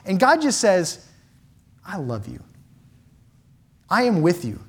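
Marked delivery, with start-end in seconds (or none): 1.8-4.6 tender. Retold or imitated. God voiced tenderly.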